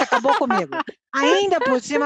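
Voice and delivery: said through a laugh. Real, not acted. Mother laughing at her son's answer, amused. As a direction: laugh as you admit defeat.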